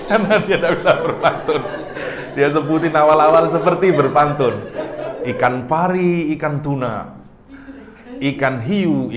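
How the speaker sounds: amused, laugh-filled delivery; laughing while talking. Real, not acted. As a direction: keep laughing as you tell it. Laughing through joke.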